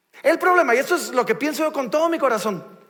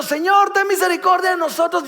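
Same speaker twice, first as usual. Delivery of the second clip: blind men crying out; 5 semitones higher, 3 dB louder than usual. Retold or imitated. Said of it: "le están gritando".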